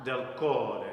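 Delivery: "cuore" with the weight on CUO; demonstrated stress on CUO in "cuore"; penultimate stress. Shown as a demonstration. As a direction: lean on CUO and let "re" fall away. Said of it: "the second to the last syllable".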